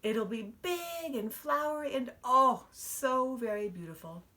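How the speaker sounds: a hint of a dreamy little girl; lightly voiced girl daydreaming; dreamy sigh. Jenny dreaming of her new hat, lightly voiced and dreamy. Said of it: "she sighed".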